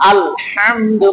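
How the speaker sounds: slow "আলহামদু" with pressure on the ha; pressed throat ha. Shown as a demonstration. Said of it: "চাপ দিছি".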